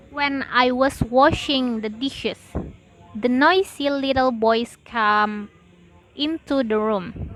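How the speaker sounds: pauses after "dishes" and "come"; talk groups. Shown as a demonstration. Teacher demonstrating message units, pausing after "dishes" and "come". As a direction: chunk it: "washing the dishes", "boys come", "into the room". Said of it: "The message units in a sentence".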